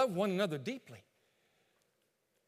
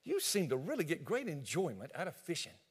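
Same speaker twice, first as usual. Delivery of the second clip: sweet wife; 2 semitones lower than usual. Acted. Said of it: "just walk over to him and say".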